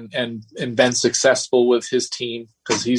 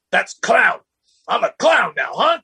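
mock indignant rival; 9 semitones higher, 3 dB louder than usual. Voicing sulking Patrick, retold.

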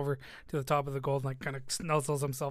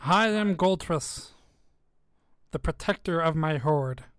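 dragon voice; 6 dB louder than usual. Acted. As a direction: announce yourself like a tiny proud dragon.

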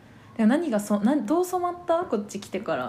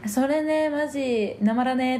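higher-pitched Hokkaido dialect line; 3 semitones higher, slower than usual. Acted. Suggesting they use dialect on purpose, Hokkaido accent. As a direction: play up the Hokkaido slang. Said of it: "なまらとか？".

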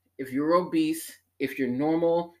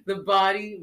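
laughing through the words, louder and slow; 8 semitones higher, 4 dB louder, slower than usual. Real, not acted. Admitting she trashed the chart, laughing.

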